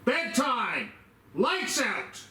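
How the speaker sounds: yelling across the room. Acted. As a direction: bark lights out like a guard. Guard calling lockdown to spirits.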